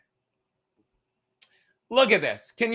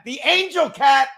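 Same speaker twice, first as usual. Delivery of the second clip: excited exclaim; 4 semitones higher, 5 dB louder than usual. Real, not acted. Exclaiming about the cat.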